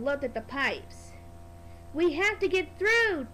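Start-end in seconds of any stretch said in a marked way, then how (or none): 1.9-3.3 a bit louder, urgent toot; urgent call. Acted. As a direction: call out to be let through. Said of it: "tooted Thomas".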